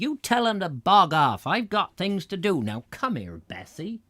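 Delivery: hammed-up cross yokel; grumpy farmer. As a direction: huff at the silly boaters. Improvised grumpy farmer reply.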